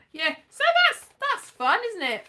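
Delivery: high, chirpy mock-cheer; bright playful lift; sing-song high. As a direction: pitch it way up in mock delight. Mock-cheery aside to viewers.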